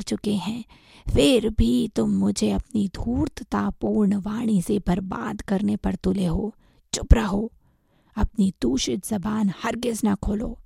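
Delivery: husky, hushed scolding with contempt; scornful anger. Acted. Master threatening the monkey with the mantra, scornful. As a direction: rebuke with understated, breath-laden scorn. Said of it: "उसने तिरस्कार पूर्वक कहा".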